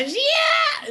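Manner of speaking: high-pitched, drawn-out yell; loud, stretched mock warrior shriek; imitated battle cry. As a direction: let out a playful war cry, voice soaring. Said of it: "she just yells it into the cave".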